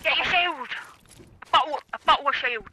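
mock British. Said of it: "she teaches me the slang".

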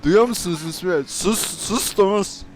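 high, loud and urgent; frantic phone yell. Acted. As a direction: shout over the noise to be heard. Yelling into phone in car. (arabada telefona çığlık atarak)

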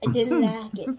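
loud exaggerated complaint. Shown as a demonstration. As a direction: blurt it out loud. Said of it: "Say it like that".

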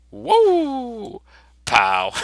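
high whoop then a shouted pow; shouted cartoon sound effects. Teacher shouts the comic fight sound effects. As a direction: yell the action words like a cartoon.

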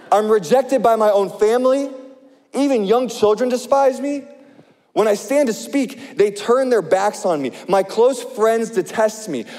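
earnest preacher reading scripture. Acted. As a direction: read Job's complaint with feeling. Reads Job's lament.

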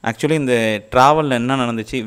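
muffled behind surgical mask; speaking behind face shield; through a face mask. Real, not acted. Seen 0: Surgical mask covers mouth throughout; face shield added from 1.1s.

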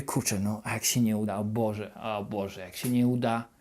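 doubting yourself while waiting, softly fearful; poisoned worried thoughts. Retold or imitated. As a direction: sink into quiet dread. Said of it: "wchodzi taka trucizna do twojej głowy".

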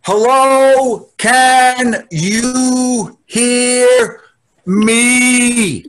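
shouting into the phone; loud, slow, confused old man on a call; loud confused hello. Acted. Old dad on bad video call.

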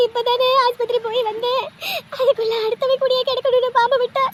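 put-on keen over the child; lamenting wail. Mother wailing that snake bit her son.

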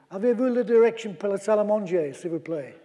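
mock shout up to someone, in French; imitating a climber calling out in French. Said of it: "he shouted up ... excuse my French".

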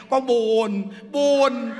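mock lament. Mocks woman's lament.

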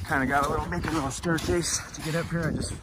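winded from the climb; breathing hard after the climb. Real, not acted. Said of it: "I'm winded just getting up here".

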